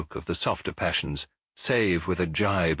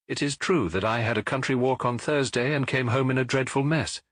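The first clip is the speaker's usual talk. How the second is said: lightly voiced Watson, higher, protesting in good humour; a hint of an exasperated friend, pitched higher; Watson, amazed; 4 semitones higher than usual. Watson protests to Holmes, lightly voiced and higher.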